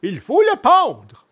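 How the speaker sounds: slow, high villain verdict; scheming assassin. A narrator's reading. One assassin to his partner, slow high villainy. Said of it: "dit alors l'un d'eux".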